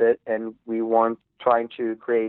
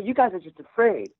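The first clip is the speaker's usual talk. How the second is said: mock Australian taunt; 8 semitones higher than usual. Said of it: "And he'd say".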